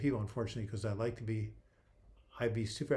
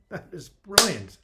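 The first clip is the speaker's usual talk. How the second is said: loud, high and drawn-out delight; real amused outburst, pitched up high; delighted reaction; 7 semitones higher, 9 dB louder, slower than usual. Real, not acted. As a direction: savor the joke, exclaiming slowly and loudly. Laughing at his favorite joke.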